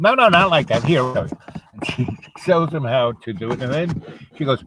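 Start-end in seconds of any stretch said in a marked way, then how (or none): 0.0-1.0 higher-pitched, lightly acted scolding; old lady correcting. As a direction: break in to correct a clumsy helper. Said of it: "and she comes".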